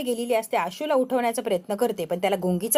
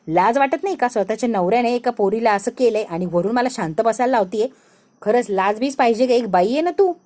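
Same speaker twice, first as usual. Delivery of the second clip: shaming outburst; 4 dB louder than usual. Acted. Accuser berates wife.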